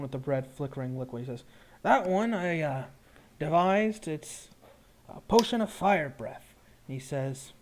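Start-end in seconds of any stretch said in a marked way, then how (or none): 1.8-6.5 lightly voiced shopkeeper, a little higher; potion seller. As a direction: present your wares as the brewer. Game master voices potion seller.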